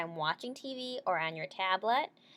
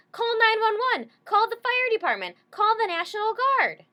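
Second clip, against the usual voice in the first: high, very loud panicked commands; frantic orders; 9 dB louder than usual. Acted. Girl shouting orders at her dog, high and very loud.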